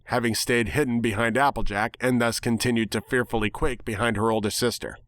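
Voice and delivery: ordinary delivery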